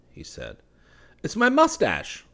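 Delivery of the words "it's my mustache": sighing. Acted. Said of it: "sighed the other".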